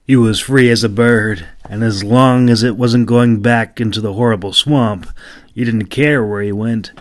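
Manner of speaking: measured audiobook storytelling voice; story narration. A narrator's reading. Narrator telling listeners of the young warrior's escape, in calm storytelling. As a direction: read it like a fantasy audiobook.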